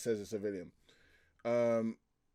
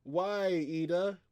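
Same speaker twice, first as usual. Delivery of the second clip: mock protest; 6 semitones higher, much slower than usual. Acts character being stopped.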